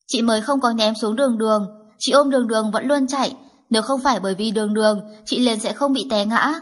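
a lightly voiced child, pouting and protesting; indignant little girl. Little girl protesting to her grandmother, pouting. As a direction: defend her sister like an upset toddler. Child defends sister angrily.

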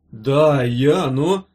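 loud, faltering stammer; frightened patient's halting answer; timid. A narrator's reading. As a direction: start nervously and trail into hesitation. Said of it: "пугливо начал укушенный".

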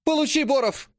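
shrill squeal. A narrator's reading. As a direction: spit out the insult. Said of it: "звонкий визг".

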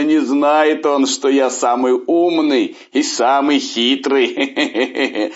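loud, laughing, gloating tiger; growling tiger voice. A narrator's reading. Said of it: "начал смеяться над охотником". (злорадный смеющийся голос тигра)

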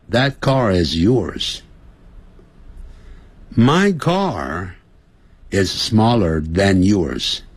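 slow read-along. Shown as a demonstration. Teacher reads whole lesson for class to repeat, slow and clear. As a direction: read the lesson aloud slowly for students to repeat. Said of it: "我把整课从头到尾念一下，大家跟读".

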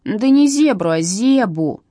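"не зебру" hit high and loud, then "зебу" firmly; correcting stress. A narrator's reading. Katya corrects Irina's mishearing, stressing "зебу". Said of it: "поправила Катя".

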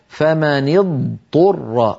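فمن اضطر slowly, ض kept distinct before ط; slow careful recitation. Shown as a demonstration. Teacher introducing the often-mispronounced word, slowly. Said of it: "بقي كلمة اضطر".

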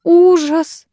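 high panicked cry of horror; nanny in a high, panicked wail; panicking. A narrator's reading. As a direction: gasp it out in alarm. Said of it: "запаниковала Краузе".

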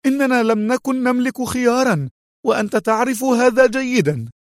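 high-pitched, agitated woman's voice; edgy, irritable. A narrator's reading. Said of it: "مستطردة في عصبية".

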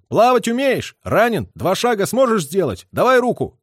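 loud urgent call to a soldier in the water; shouted call. A narrator's reading. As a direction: shout it out over the river, pitched high. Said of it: "крикнул".

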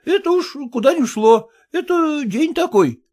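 high, eager, rattled-off assurances; muttering clerk. Acted. Son-in-law mumbling promises to father-in-law, high. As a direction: reassure him over and over. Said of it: "бормотал Порфирий Васильевич".

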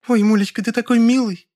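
high, gushing female voice; high-pitched overjoyed squeal; delighted. A narrator's reading. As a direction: gush with girlish delight. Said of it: "Аж захлопала в ладоши Лёля".

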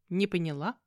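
plain reading voice

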